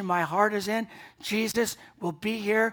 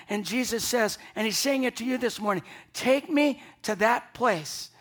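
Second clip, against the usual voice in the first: raised, insistent pulpit appeal; impassioned preaching; 3 semitones higher than usual. Acted. Preacher voicing Jesus's call to Mary and this morning's congregation, impassioned. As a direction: press each appeal home with rising urgency.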